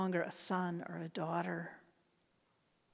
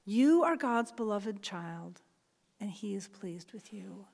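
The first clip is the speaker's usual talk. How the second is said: gentle blessing; 3 semitones lower than usual. Shown as a demonstration. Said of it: "say these words".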